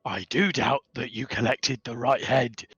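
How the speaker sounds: mildly excited goblin clerk; eager at first, then doubtful; lightly voiced excited goblin. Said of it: "very excitedly and go".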